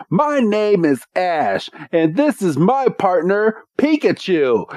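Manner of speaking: a lightly voiced heroic intro; proud Ash. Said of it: "and Ash is like".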